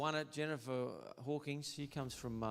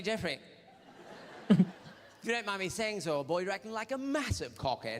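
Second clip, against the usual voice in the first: mock polite; 6 semitones higher, 3 dB louder than usual. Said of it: "I say".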